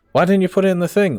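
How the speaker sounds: high, loud and fast, baffled; retelling how he confronted the user, high and loud and fast; exasperated disbelief. Retold or imitated. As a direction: fire it back in disbelief. Retold argument with user.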